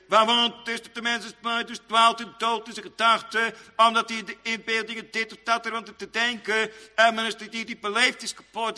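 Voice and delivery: preaching. Real, not acted. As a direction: preach it in a high, steady intoning voice. Preaches in raised chant.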